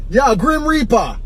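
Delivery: slow, high imitation of a Jamaican cabbie; Jamaican accent. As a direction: draw it out in mock Jamaican. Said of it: "He had that Jamaican accent".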